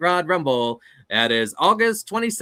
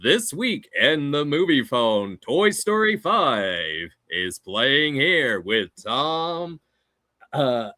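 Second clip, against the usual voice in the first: movie phone announcer; 4 dB louder, slower than usual. Acted. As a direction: announce it like a cinema hotline. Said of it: "can you also do movie phone?".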